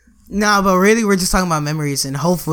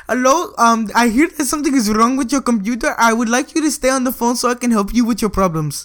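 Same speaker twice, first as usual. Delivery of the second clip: mock Indian call-center accent; lightly put-on Indian accent; 3 semitones higher than usual. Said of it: "you just did the Indian accent again".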